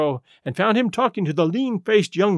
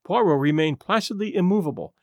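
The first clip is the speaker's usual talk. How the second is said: ordinary delivery, nothing marked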